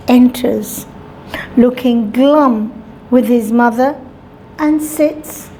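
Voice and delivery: usual speaking voice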